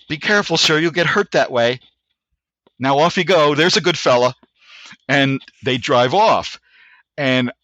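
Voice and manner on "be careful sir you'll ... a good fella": politely menacing mock-British sergeant major; stereotype British accent. Sergeant major sending the driver off, imitated British accent. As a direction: lightly imitate a British NCO's courteous warning. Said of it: "a stereotype British accent".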